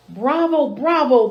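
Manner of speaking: a mild, cheerful cry of bravo; exclaiming king. Acted. King applauding the dewdrop dance, mildly exclaiming. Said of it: "the king exclaimed".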